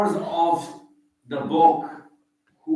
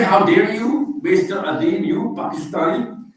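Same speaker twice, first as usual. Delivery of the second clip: high, loud, indignant challenge; hammed-up high, loud how dare you; mock outrage; 7 semitones higher, 5 dB louder than usual. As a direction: play the offended Scot daring him. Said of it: "You're not gonna say".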